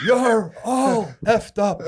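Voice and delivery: laughing through the repeat, slow and loud; can't stop laughing while quoting. Real, not acted. Retelling Nate's put-down to his friend through laughter.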